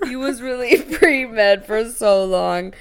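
laughing tease. Real, not acted. Laughing teasing echo.

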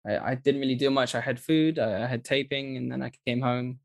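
put-on everyday British accent, casually retelling the day; understated British English; own British accent. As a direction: slip back into a British accent. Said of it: "I go back to the way I was raised".

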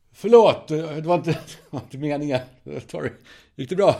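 high, loud, flustered apology from the driver; apologetic driver. Pretend. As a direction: play the guilty driver blurting sorry, breaking into a laugh.

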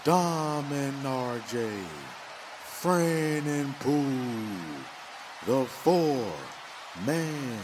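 booming ringmaster intro. Pretend. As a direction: announce it like a circus ringmaster. Podcast intro announcement.

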